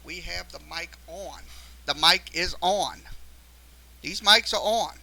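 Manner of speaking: quietly checking his gear, talking to himself; muttering while he tests the mics. Real, not acted.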